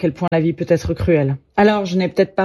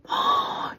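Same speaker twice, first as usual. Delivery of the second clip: soft breathy "oh" of rapture; sigh, overcome by his beauty; swooning gasp; 8 dB quieter than usual. Acted. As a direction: lovestruck little gasp. Swooning over the Italian's nose.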